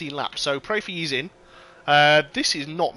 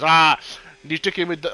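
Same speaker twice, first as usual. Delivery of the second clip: put-on a weak, half-hearted Finnish accent; mock Finnish accent of a driver; 5 dB louder than usual. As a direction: try a Kimi Raikkonen Finnish accent and miss. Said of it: "It was more German than Finnish".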